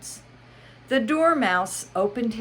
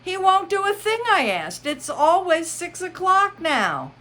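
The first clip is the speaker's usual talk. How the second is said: sad tone; 13 semitones higher, 6 dB louder than usual. Acted. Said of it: "in a sad tone".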